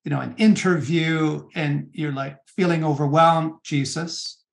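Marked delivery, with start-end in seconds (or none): 3.6-4.4 a softer, gentle plea to Jesus; soft prayer. Shown as a demonstration. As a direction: pray it quietly, as if alone with God. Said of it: "the prayer that goes like this".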